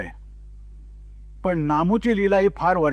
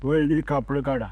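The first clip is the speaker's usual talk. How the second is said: slow, lower, unbothered calm; calm reply; 5 semitones lower than usual. Retold or imitated. Dhobi answering the scolding customer, slow and unruffled. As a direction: let it drop evenly, no fuss at all. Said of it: "आणि शांतपणाने म्हणतो".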